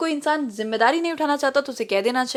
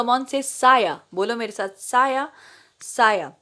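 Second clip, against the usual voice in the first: patient teaching; slower than usual. Retold or imitated. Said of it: "कम अक्लमंद बच्चे को सिखा रही है".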